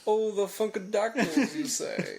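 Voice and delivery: drawn-out affected connoisseur; hammed-up snooty musing; mock snob. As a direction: play the aloof connoisseur, amused. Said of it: "if I slow that down".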